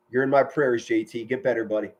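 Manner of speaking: quiet, heartfelt aside; sincere well-wishing. Real, not acted. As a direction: wish an ailing buddy well, gently. Well-wishing to an ill friend.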